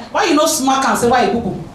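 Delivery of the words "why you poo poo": lower-pitched, matter-of-fact mock reproach; mild scolding. Parent to baby who pooed, mildly scolding. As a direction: take the baby lightly to task.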